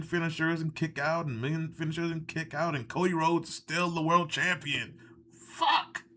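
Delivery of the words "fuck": sudden high yelp of disgust; real frustrated outburst at the screen; outraged curse. Real, not acted. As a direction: blurt it out, shocked and fed up. Reacting to Cody still champion.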